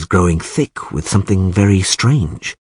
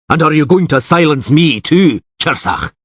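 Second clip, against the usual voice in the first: shouted; 7 semitones higher, 3 dB louder than usual. Acted. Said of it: "shouted Rainfawn of Atre".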